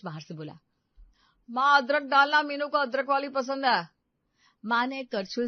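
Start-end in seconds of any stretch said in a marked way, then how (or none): 1.5-3.9 calling out. Acted. Rajesh calls from outside.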